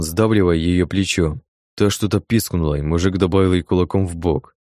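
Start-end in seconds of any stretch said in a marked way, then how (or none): none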